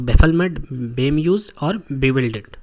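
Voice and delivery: loud, punched first word then a drawn-out slow finish; teacher spelling out new words for the class, firmly and loudly; emphatic listing. Shown as a demonstration. Teacher lists confusion synonyms.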